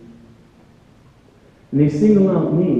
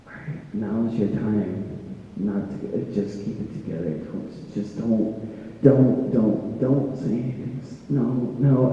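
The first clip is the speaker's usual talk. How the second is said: hushed self-talk; 3 semitones lower, 6 dB quieter than usual. Acted. Inner self-talk, keep it together.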